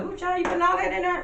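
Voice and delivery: high, teasing mock auntie scolding the cook; sassy auntie voice. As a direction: play a scandalized Southern auntie watching the seasoning. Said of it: "You know, it's like".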